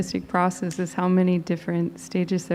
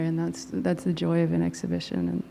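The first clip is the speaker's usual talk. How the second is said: trailing off; 5 dB quieter than usual. Real, not acted. Artist winding down an answer about exhibitions, trailing off. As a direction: voice fading away at the end. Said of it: "I'm kinda trailing off the end".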